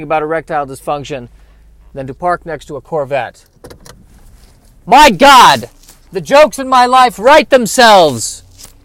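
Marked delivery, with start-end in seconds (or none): 4.9-8.7 high, very loud comic disbelief; loud amazed exclamation. Real, not acted. Podcaster parking beside a Corvette, loudly amazed. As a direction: cry it out, stretching the words slowly.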